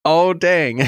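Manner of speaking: high, bright little gasp of discovery; excited pop of recognition; delighted surprise. Retold or imitated. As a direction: pitch up sharply like you just caught it. Delighted reaction to spotting reference.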